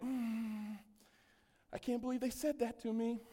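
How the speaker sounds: soft, breathy inner grumble; brooding mutter. Retold or imitated. Pastor mimicking a stewing churchgoer, soft muttering.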